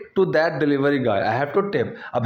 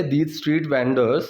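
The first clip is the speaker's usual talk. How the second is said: very slow model phrase; much slower than usual. Shown as a demonstration. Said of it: "teacher models phrase very slowly".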